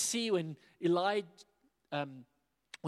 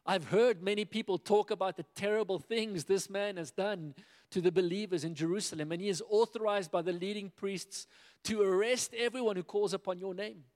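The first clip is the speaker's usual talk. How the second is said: anxious plea; 4 semitones higher, 3 dB louder than usual. Acted. Ananias pleads in fear.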